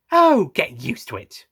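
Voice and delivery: slow, blunt brush-off. A narrator's reading. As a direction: say it flatly, no sympathy. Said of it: "Missy stated bluntly".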